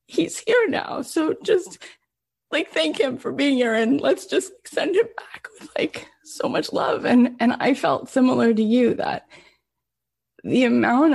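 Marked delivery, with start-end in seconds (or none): 0.1-7.1 tearful whisper. Retold or imitated. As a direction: hush it while fighting tears. Telling kids through tears, whispering.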